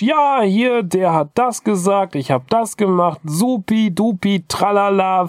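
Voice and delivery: put-on high, rushing kid chatter; energetic kid voice. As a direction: play the kid babbling happily. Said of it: "er so energetisch".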